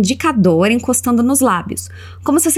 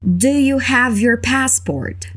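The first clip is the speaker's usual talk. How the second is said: slow model; much slower than usual. Shown as a demonstration. Teacher modelling the airport question, slowly. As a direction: Do you have your passport, slow and even. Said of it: "como você perguntaria".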